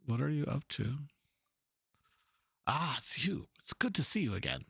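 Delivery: worried artist pacing over his canvas; fretting painter. Acted. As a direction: mutter through the problem like a frustrated painter.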